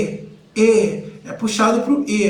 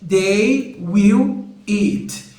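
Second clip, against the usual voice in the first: slow model phrase; 2 semitones lower, much slower than usual. Shown as a demonstration. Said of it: "eles comerão".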